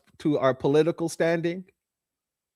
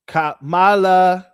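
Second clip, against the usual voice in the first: slow, louder drawn-out call; 7 dB louder, much slower than usual. Shown as a demonstration. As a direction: stretch out the name, louder. Calling Kamala's name.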